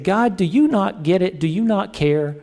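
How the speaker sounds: half-playful frustrated plea; frustrated prayer. Retold or imitated. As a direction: act out a fed-up prayer. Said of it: "you have prayed and said".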